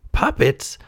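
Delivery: put-on high, childlike wonder; high puppet exclamation; Pinocchio. A narrator's reading. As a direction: pipe up with interest. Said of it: "said Pinocchio".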